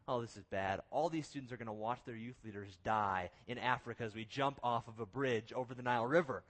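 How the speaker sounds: low, understated dread; mild sinking-feeling aside; dreading inner thought. Retold or imitated. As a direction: think it to yourself, dropped low in pitch. Retold dread in his head.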